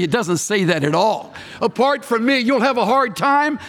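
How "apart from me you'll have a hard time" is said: second wrong version, a bit higher and brighter; light mock paraphrase; mock misquote. Shown as a demonstration. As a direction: toss it off as another softened misreading. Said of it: "No, it doesn't say that either".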